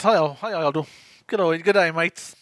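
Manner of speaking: clumsy fake Australian greeting; botched attempt at an Aussie accent. Co-host showing off a terrible accent, mock Australian. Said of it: "I know, that's terrible".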